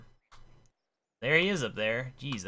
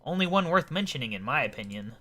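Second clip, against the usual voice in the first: eccentric gent, loftily insistent; pompous old-fashioned gentleman; 5 semitones higher, 6 dB louder, slower than usual. Acted. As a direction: insist like an affronted storybook gentleman. Voices Rupert in game dialogue.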